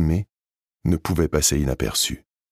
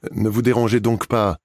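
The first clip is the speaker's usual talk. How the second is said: fresh voice; 7 semitones higher, 3 dB louder than usual. Acted. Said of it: "a dit une voix fraîche".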